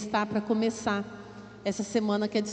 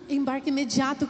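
excited echo. Real, not acted. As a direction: say "embarque imediato" as happy news. Teacher echoes the call excitedly.

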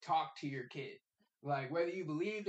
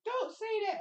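mock teacher; 3 dB louder than usual. Teacher scolding kid.

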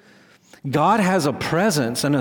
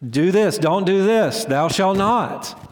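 firm, slightly raised lawgiver voice; imitating God handing down commands; authoritative commands; 4 semitones higher, slower than usual. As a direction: lay down the law, slowing at the end. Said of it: "gives us his law authoritatively".

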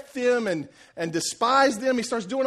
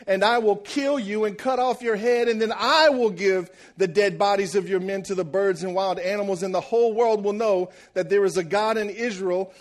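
trash talk; 3 dB louder than usual. Acted. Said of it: "David comes out and talks some real trash".

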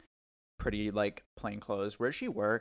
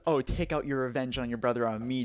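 louder, hammed-up passionate plea; breathy dramatic quote; 6 dB louder than usual. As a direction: ham up the passionate line. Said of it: "she goes".

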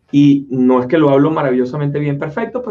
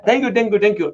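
put-on Indian accent thanks; 4 semitones higher than usual. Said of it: "hablar con acento".

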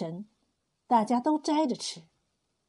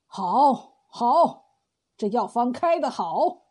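pleased exclamation; 4 dB louder, much slower than usual. Acted. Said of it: "连连说".

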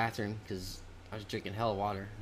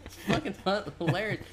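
much higher, giddy answer; mock excited reply. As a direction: squeal it back through laughter. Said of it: "I was like".

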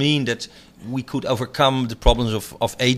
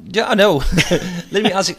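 laughing; 4 semitones higher than usual. Real, not acted. Interviewer laughs at the remark.

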